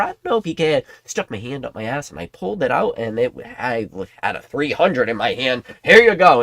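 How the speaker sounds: a hint of a smug, squeaky pundit; mocking Kimmy. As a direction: tease the guesser's made-up numbers. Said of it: "um, Kimmy?".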